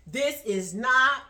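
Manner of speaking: slow, loud "not"; careful emphasis. Retold or imitated. Woman modelling how boyfriend should explain, emphatic. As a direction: spell it out slowly, leaning on "not".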